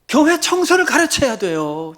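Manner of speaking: high, loud pulpit cry; loud exhortation. Real, not acted. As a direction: urge the congregation at full voice. Urgent exhortation, then repeated softly.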